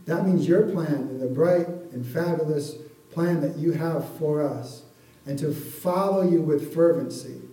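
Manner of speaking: prayer. Acted. Closing prayer.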